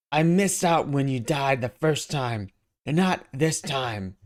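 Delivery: slow, drawn-out sarcastic taunt; slow mocking jab at the villain. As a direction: draw it out mockingly. Spider-Man taunting slowly.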